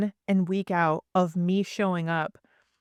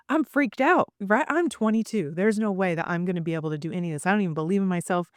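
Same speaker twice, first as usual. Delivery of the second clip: freaked out. Retold or imitated. Young investor telling colleagues she can't buy, freaked out. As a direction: protest your own doubt in a rush. Retells being scared to buy.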